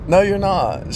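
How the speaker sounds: high, loud mock denial; wife contradicting him, high mock denial; imitating wife. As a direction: snap it back high as the wife. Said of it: "She thought it was fake".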